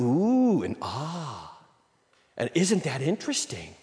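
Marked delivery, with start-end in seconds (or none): 0.0-0.6 mock ooh. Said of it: "just to kinda go". 0.8-1.6 mock ah. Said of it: "just to kinda go".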